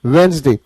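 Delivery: "वेडनेसडे" as WENZ-day, first D silent; pronunciation demo. Shown as a demonstration. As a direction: say "वेडनेसडे" clearly in two syllables, WENZ-day. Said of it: "क्या है इसकी pronunciation".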